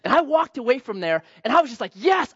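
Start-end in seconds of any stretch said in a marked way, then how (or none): 1.9-2.3 higher, thrilled little cheer; elated yes. Retold or imitated. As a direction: celebrate the good deed. Elated after giving money.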